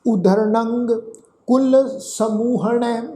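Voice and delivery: slow, drawn-out sacred recitation; scripture recitation. Shown as a demonstration. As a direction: recite slowly, holding the long vowels.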